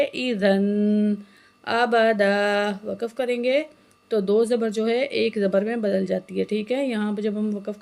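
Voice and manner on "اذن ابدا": اذن with a soft, gentle ذ; soft dhal. Shown as a demonstration. Teacher models the soft dhal, recited slowly. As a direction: ease into the ذ of اذن softly. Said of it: "زال کو نرمی سے پڑھیں گے".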